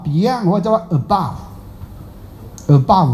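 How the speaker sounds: Beyond and above spelled out slowly, syllable by syllable; teaching the words. Shown as a demonstration. Master teaching two English words, slow and deliberate. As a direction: say above，above slowly so students catch it. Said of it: "讲两个嘛".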